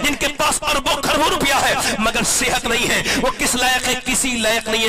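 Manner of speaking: high, loud impassioned sermon cry; fervent rising sermon delivery; full-force preaching. Acted. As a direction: preach it at the top of your voice, pleading with the crowd.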